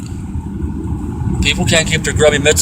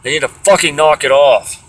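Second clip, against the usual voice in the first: swearing tirade. Real, not acted. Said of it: "I'm sorry for swearing".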